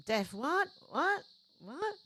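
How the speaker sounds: laughing disbelief. Real, not acted. Reacts to Deb going deaf.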